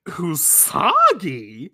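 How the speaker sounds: very slow, drawn-out wondering; a hint of private disbelief; puzzled thought. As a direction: Usagi wondering to herself. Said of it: "thinking to herself".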